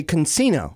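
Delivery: "casino" with an added N; girlfriend's mispronunciation. Retold or imitated. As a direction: say "casino" as con-SEE-no. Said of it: "she would say casino".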